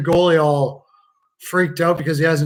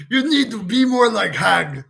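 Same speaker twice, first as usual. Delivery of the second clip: higher put-on coach voice; acted admonishing, pitched up; mock coach's lecture; 5 semitones higher than usual. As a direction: urge the player on as a hammed-up coach.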